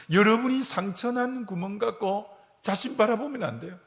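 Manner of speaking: ordinary talk, nothing marked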